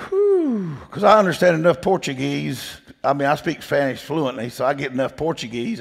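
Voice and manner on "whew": whew. Retold or imitated. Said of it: "I said".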